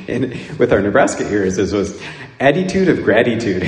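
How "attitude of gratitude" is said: put-on Philly accent. Imitating a Philadelphia priest's accent. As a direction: do the Philadelphia priest's "attitude of gratitude". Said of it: "the way we heard it".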